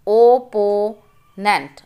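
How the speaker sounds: ओपोनेंट read slowly in parts; slow syllable reading. Shown as a demonstration. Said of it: "Read the multi-syllable words".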